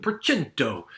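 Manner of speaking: Percento said with a playful Italian accent, the c as "ch". Shown as a demonstration. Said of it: "That's my best Italian accent".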